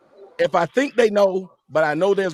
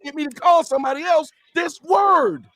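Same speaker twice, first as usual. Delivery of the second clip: heated shout; 5 semitones higher than usual. Real, not acted. Heated argument about the slur.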